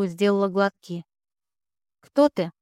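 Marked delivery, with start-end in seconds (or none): 2.0-2.5 sharp, high threatening demand; menacing. A narrator's reading. Gabriel confronting the stranger beside her, menacing demand. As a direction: challenge the stranger hard. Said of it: "Устрашающий голос Габриэля".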